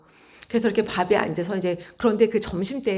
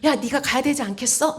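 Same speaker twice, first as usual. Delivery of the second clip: mock raised voice, higher; half-hearted shouted demand; imitated scolding; 4 semitones higher than usual. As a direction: play a mild telling-off, pitched up. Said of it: "저한테 막 소리 내면서".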